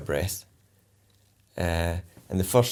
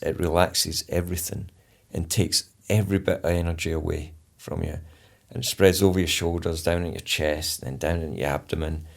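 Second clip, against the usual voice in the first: slow soothing relaxation talk. Shown as a demonstration. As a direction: ease them down muscle by muscle. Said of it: "really slowly going through it".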